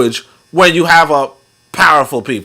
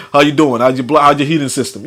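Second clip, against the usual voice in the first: casual, lightly imitated phone voice; Black American caller. Imitating a black person on the phone, casual delivery. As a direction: run the words together casually. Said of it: "a black person would be like".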